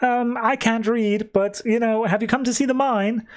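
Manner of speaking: put-on high, sweet little girl voice; creepy little girl. Young girl begging the strangers for food in a high little voice. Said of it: "which she's like".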